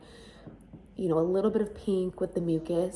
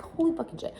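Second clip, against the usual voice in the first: high stunned curse; shocked; 10 semitones higher, faster than usual. Retold or imitated. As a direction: gasp it out in disbelief, pitched up. Shock at sudden full labor.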